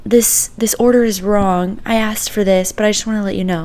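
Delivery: lightly imitating a relative's hushed complaint; hushed aside. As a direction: lean in and say it quietly. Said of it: "whispers to me".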